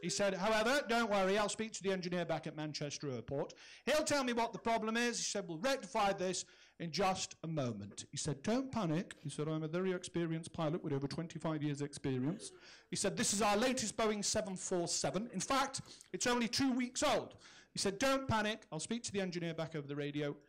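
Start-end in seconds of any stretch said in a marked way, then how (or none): 0.3-5.2 cocky captain. Retold or imitated. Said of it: "very, very cocky". 5.5-8.0 cocky captain. Retold or imitated. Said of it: "very, very cocky". 8.4-9.1 cocky captain. Retold or imitated. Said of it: "very, very cocky". 9.5-17.4 cocky captain. Retold or imitated. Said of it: "very, very cocky". 18.0-20.4 cocky captain. Retold or imitated. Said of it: "very, very cocky".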